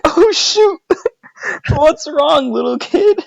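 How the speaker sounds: imitated lady, pitched high; high-voiced concern for a lost child. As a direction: play the alarmed helpful stranger. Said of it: "this lady's like".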